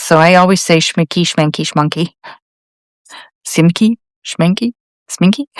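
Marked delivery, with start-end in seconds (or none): 0.8-2.1 "Schminky, Schmanky, Schmunky" with the vowel changed each time; fumbled brand name. Shown as a demonstration. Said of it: "who I can never pronounce". 3.5-5.5 "Simky? Schmenky? Sminky?" each as a separate rising question; unsure pronunciation guesses. Shown as a demonstration. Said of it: "who I can never pronounce".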